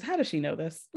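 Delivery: soft low half-whisper; mock whisper. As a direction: hush it like a stunned secret. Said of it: "Margaret whispers".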